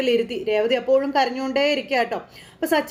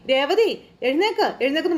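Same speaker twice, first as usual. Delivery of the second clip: higher-pitched insistent calling; urging call; 4 semitones higher than usual. Acted. Husband calling his slumped wife to get up, urging.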